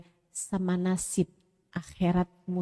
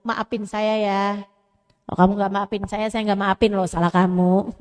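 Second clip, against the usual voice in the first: mock grudging apology, getting louder; insincere apology; 5 dB louder than usual. Wife giving a half-hearted apology, rising to a loud demand. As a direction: apologize while blaming him back. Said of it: "Ngomongnya gini".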